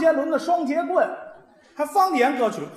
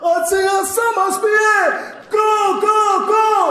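mock Spanish; 7 semitones higher, 5 dB louder, slower than usual. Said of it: "西班牙语".

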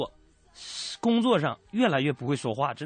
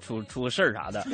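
ordinary talk

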